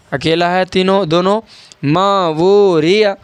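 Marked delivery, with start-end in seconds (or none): 1.8-3.1 slow, long "ما" and "وہ", quick final "a" in "ریا"; drawn-out recitation. Shown as a demonstration. Teacher modelling long vowels for learners, slowly stretched "ما وہ". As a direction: hold "ما" and "وہ", release "ریا" at the end. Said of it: "آپ کو دیکھنا ہے یہاں الف مدہ".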